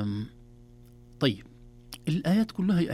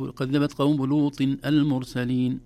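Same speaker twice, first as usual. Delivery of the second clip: recited verse; 2 semitones higher, 5 dB louder, slower than usual. Shown as a demonstration. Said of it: "لماذا لم نقل".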